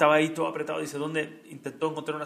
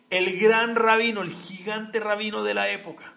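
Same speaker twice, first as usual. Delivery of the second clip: reverent emphatic; 6 semitones higher, 7 dB louder, slower than usual. Acted. Sermón, elogio.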